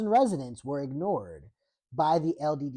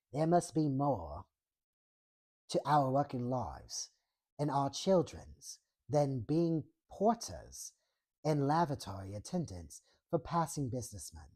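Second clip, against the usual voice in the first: reading the quote in a put-on British accent; 4 dB quieter than usual. Shown as a demonstration. Streamer reads a quote to chat in a mock British accent. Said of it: "I can definitely do a British accent here".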